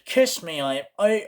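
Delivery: overdone fake Irish with rolled R; high, hammed-up Irish; bad Irish accent. Tourist saying kiss me, bad Irish accent. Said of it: "that's not how an Irish, Irishman talks".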